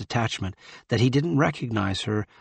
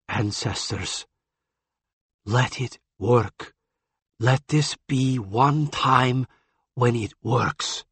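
desperate prayer; slower than usual. Acted. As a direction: pray under your breath. Desperate prayer over patient.

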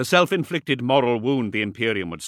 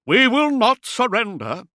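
high, loud blustering defiance; full-voiced bluster; defiant shout; 9 dB louder than usual. A narrator's reading. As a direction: shout it at the enemy. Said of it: "he shouted at Bezrak".

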